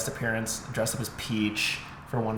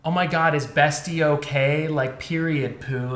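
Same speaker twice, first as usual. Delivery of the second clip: mock Gen Z slang delivery; drawn-out, overeager imitation of slang; trying too hard; 3 semitones higher than usual. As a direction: imitate awkward actors forcing youth-speak. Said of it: "they were trying so hard".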